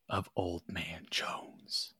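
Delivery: slow whispered reveal; dramatic whisper. Acted. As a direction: drop to a whisper for the big secret. Dramatic reveal of family name.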